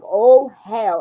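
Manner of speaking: loud alarmed "Oh, hell"; mock-panicked outburst; panicked exclamation. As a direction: blurt it out in a panic. Retold panic at school news.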